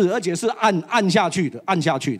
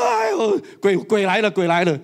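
play-scared disciples shrieking ghost; mock fright. Frightened disciples see Jesus. (门徒假装害怕地喊鬼来了)

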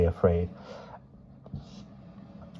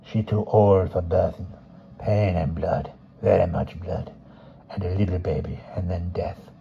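put-on hushed ominous old woman; 4 dB quieter than usual.

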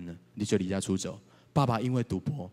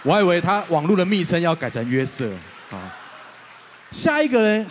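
excited joke; 7 semitones higher, 8 dB louder than usual. Real, not acted. Joke to the congregation.

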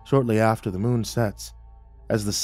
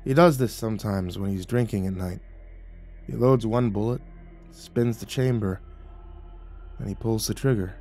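soft, subdued murmur; hushed and grave, letting it drop away; 6 dB quieter than usual. A narrator's reading. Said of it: "He murmured".

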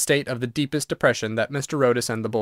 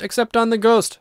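even higher gleeful squeal on ghost; shrieking; 10 semitones higher, 4 dB louder than usual. A narrator's reading. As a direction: shriek it louder, dancing about. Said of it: "shrieked the twins as they capered about".

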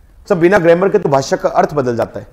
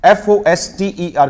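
slow, letter by letter; slow letter-by-letter spelling; much slower than usual. Shown as a demonstration. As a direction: spell the word out slowly for the class. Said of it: "एक word बोलेंगे sir".

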